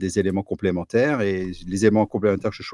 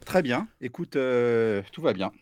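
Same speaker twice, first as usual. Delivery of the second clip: calm; 5 dB quieter, slower than usual. Acted. Calm reply after alien bit.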